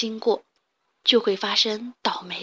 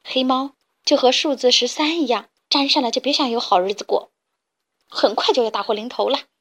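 mild superstitious alarm; 4 dB louder than usual. Acted. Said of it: "几只小母鸡忍不住叫着".

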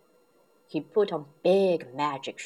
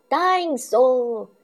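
high, slow shouted cry; loud cry; 7 semitones higher, 7 dB louder, slower than usual. Acted. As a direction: belt it out like an excited toddler. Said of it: "cried George".

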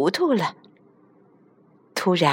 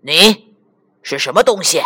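lion's question; 2 semitones lower, 3 dB louder than usual. A narrator's reading. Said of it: "狮子舔舔嘴问道".

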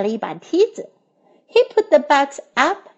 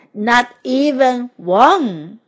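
slow and a little mournful; a touch of sadness; slower than usual. Acted. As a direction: let it sink in, slowly and sadly. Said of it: "said Toad sadly".

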